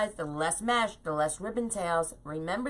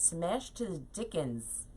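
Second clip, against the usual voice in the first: slow, softer, turning the odd phrase over; amused disbelief; 7 dB quieter, slower than usual. Real, not acted. Repeating her own quaint phrase to viewers, slow and bemused. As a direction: echo your own words as if someone else said them. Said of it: "I don't speak like that".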